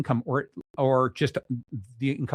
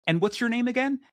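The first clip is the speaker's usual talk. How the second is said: higher, lightly played sheepish ask; sheepish question; 11 semitones higher than usual. Guest forgetting a name they just heard, lightly sheepish. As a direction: imitate the guest who already forgot. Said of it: "Everyone goes".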